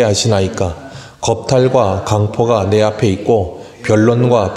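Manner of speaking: measured Bible reading; scripture reading. Acted. Pastor and church read Habakkuk's complaint in a measured reading voice. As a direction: read Habakkuk's lament steadily aloud. Reads Habakkuk aloud together.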